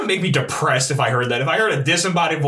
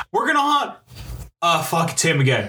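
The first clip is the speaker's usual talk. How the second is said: mock ghost voice. Ghosts spotting him again, mock squeaky voice. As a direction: start squeaky then deflate.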